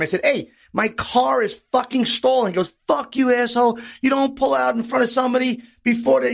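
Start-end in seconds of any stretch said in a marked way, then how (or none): 0.2-2.5 mild road-rage protest; retold screaming. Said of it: "we both start screaming at the same time". 2.9-6.3 higher-pitched mock yell; mild, hammed-up road rage; retold screaming. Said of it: "we both start screaming at the same time".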